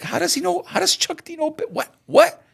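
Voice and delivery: a local rapper gasping that a famous rapper knows him; imitating stunned rapper. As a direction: play the rapper who can't believe it. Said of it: "the rapper's like".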